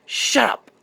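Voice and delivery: high-pitched mock angry woman; Sarah. Woman silencing David after his complaint, high-pitched mock anger. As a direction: snap it in a high put-on woman's voice. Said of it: "She's like".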